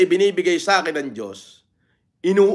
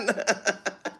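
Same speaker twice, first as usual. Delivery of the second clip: real soft laugh trailing a boast; 4 semitones higher, 10 dB quieter than usual. Real, not acted. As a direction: chuckle quietly to yourself. Laughs after boasting viewer count. (tawang mahina at kusang lumabas)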